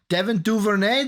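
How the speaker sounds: put-on Devin Duvernay with a playful French accent on Duvernay; lightly Frenchify the name Duvernay; French twang. Listing draft picks, a light French twang on Duvernay. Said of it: "a French little twang on the Duvernay".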